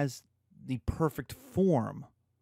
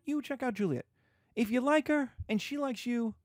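high, eager hammed-up Capulet; father pitching a party to the suitor; mock Capulet, eager; 6 semitones higher than usual. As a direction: gush like an eager matchmaking dad. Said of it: "And Capulet's like".

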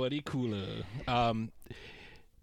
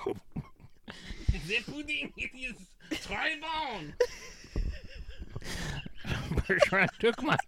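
put-on French accent. Bergeron voice again, très bon.

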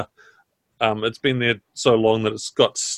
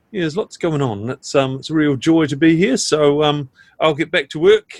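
higher, brisk landlady voice; chatty tavern keeper; innkeeper voice; 4 semitones higher than usual. Acted. GM voices Missus Eames.

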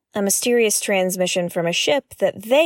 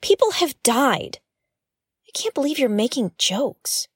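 raised, higher voice, indignant; upset scolding; 5 semitones higher than usual. Acted. Podcaster rebukes the AI for joking, upset and raised. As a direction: tell him off for joking about deaths.

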